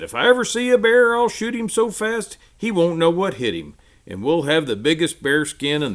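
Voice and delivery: put-on high, loud bragging child; boastful boy. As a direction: boast like an eager kid. Boastful boy voiced in story.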